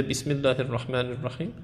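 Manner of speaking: quick recitation in a heavy Arabic accent; heavy Arabic-dialect pronunciation; thick Arabic accent. Shown as a demonstration.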